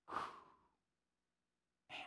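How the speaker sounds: usual speaking voice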